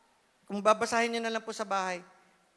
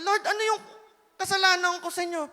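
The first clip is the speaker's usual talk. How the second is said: higher, plaintive protesting question; retold complaint to God; 7 semitones higher than usual. Retelling her complaint to the Lord in prayer, higher and plaintive. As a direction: ask God what you did wrong, higher and aggrieved. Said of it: "nagreklamo ako sa Lord".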